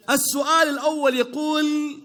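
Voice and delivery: drawn-out quiz host reading; slow, measured quiz-host announcement; slow announcer read. Shown as a demonstration. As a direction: stretch it out like a game show host.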